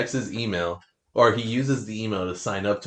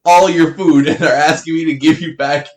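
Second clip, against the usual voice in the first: raised, loud exasperated retort to a customer; louder and higher, incredulous; loud retelling; 6 semitones higher, 11 dB louder than usual. Retold or imitated. Telling off a customer who ate her food, loud. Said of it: "I was just like".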